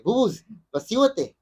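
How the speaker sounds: mock first telling-off, not yet upset; first warning. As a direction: imitate a grandfather telling a child to settle down. Grandfather telling child to stop.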